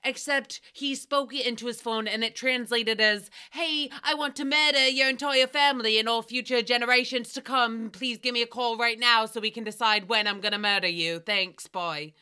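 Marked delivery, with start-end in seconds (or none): 3.5-12.1 mock-dramatic reading of a text message; dramatized reading. Host reenacting a guest's mistranslated text, dramatized. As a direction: read the garbled message with hammed-up drama. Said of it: "That was a dramatized reading".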